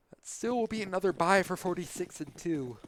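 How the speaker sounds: talking through a yawn. Real, not acted. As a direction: stretch the words out mid-yawn. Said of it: "Excuse me, I'm yawning".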